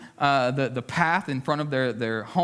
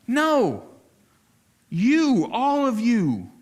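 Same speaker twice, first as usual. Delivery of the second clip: emphatic preaching; 6 semitones higher, 4 dB louder, much slower than usual. Real, not acted. Preacher insists on all believers.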